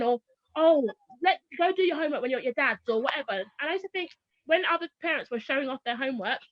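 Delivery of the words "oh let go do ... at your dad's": loud sigh of a start, then rushed brush-off; dismissive parent. Retold or imitated. Tired mother putting off homework with her child, dismissive. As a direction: pass the job on quickly, mock-exasperated.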